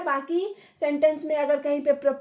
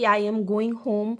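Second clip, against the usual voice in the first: slow statement, pitch falling on "home"; "home" said lower to close the statement; falling intonation; 5 semitones lower, much slower than usual. Shown as a demonstration. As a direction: let "home" sink low at the end. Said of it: "pitch है, वो नीचे हो जाता है".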